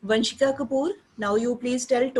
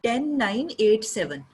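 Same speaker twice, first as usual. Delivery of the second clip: louder, brisk count as a demo; teacher models a louder count for the student; teacher's shouted demo; 3 dB louder, much faster than usual. Shown as a demonstration. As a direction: show the student how to call it out. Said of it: "she cannot shout".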